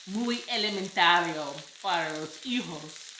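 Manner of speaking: Southern Spanish. Shown as a demonstration. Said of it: "I speak Southern Spanish".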